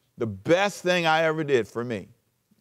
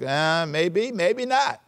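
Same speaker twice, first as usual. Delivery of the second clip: noncommittal, "maybe not" going way up; mock hesitation; 5 semitones higher, much slower than usual. Shown as a demonstration. Preacher mocking a half-hearted maybe, pitch jumping up. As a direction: shrug it off. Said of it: "It's kinda like".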